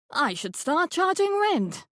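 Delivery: a hint of a gracious elderly hostess; genteel old woman welcoming the police; lightly voiced grand old lady. A narrator's reading. Rose's wry aside.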